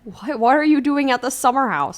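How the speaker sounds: high, incredulous question; startled mother. A narrator's reading.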